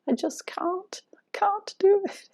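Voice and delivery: put-on British accent. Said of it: "it has a British accent".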